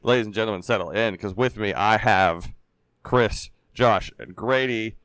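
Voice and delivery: rough, hoarse voice. Real, not acted. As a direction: voice worn out and hoarse. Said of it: "my voice is a little shot today".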